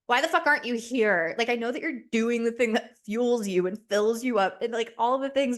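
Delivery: half-joking frustrated complaint to an absent partner; pissed off. Acted. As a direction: demand it, then grudgingly concede. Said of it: "I'm just pissed off all the time".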